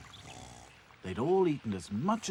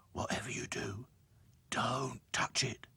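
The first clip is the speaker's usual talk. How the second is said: whispered warning. Acted. Back to Front whispering a warning in hiding. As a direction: whisper it urgently. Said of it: "said Back to Front".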